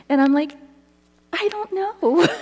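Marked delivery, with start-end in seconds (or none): 1.3-2.3 high-pitched, tearful helplessness; acted weepy high voice; mock crying. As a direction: imitate a wailed reply through tears. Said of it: "so I'm really crying".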